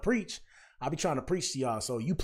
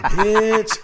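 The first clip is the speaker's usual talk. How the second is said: high, louder mock-catty woman saying it; catty insult; 8 semitones higher, 11 dB louder than usual. Woman cursing a rival in her head, high mock-catty snap. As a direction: spit it out like a catty girl. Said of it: "They be like".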